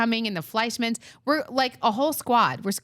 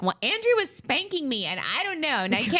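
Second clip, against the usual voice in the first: higher-pitched mock teen complaint; complaining teenager; 6 semitones higher than usual. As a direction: imitate a teenager tattling. Acts out teenager Isabel complaining.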